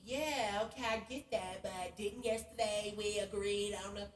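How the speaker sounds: mimicking sassy man. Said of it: "he just talking to me sassy and weird".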